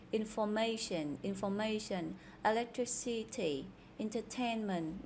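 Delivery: "information", "electricity", "entertainment" each stressed on the third syllable. Shown as a demonstration. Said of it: "đều là nhấn âm thứ ba". (nhấn âm thứ ba trong "information", "electricity", "entertainment")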